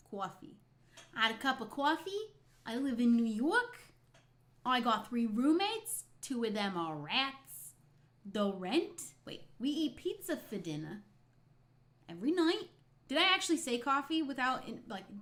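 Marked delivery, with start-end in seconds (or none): 0.1-0.6 exaggerated New York "cawfee"; New York accent. Streamer trying out her coffee word, put-on New York accent. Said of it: "doing the accent intentionally". 1.2-12.7 loud, drawn-out New York caricature; exaggerated New York accent. Streamer playing a New Yorker with rat roommates, hammed-up New York accent. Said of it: "I love to do this accent".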